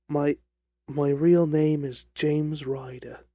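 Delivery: slow, hesitant little-man voice; reluctant admission. Acted. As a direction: stumble into the confession. Ryder reluctantly gives real name.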